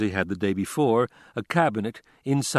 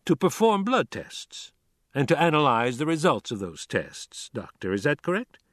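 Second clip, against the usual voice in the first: pointed, raised prosecutor questioning; courtroom prosecutor; 4 semitones higher than usual. Acted. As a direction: press the witness like a prosecutor.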